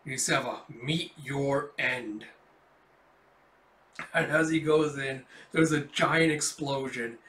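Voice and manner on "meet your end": unhurried villain's threat; slow menacing villain. Acted. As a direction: make each word a promise of death. Villain threatens before explosion.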